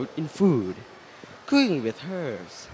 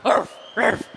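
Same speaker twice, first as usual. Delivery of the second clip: high put-on puppy yip; dog bark; 5 semitones higher than usual. The dog character introduces himself, barking. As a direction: yap like a small dog.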